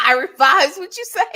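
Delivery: giggling through the words; laughing. Real, not acted. Host laughing off a viewer comment about Dennis, amused. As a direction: laugh while brushing it off.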